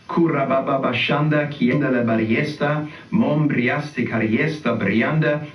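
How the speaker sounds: fluid made-up syllables, prayer rhythm; praying in tongues. Shown as a demonstration. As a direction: let the tongues flow out. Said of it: "I'm just gonna pray in tongues".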